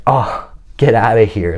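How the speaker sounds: mildly imitated flattered swoon; starstruck. Woman flattered by his compliment, mildly starstruck. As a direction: play her as a touch starstruck. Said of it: "saying it like she was starstruck".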